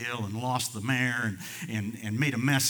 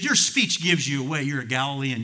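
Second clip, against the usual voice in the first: put-on accusing girl; 3 semitones higher, 8 dB louder than usual. Preacher as the girl challenging Peter by the fire, accusing. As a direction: call him out as the accusing girl. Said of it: "she said".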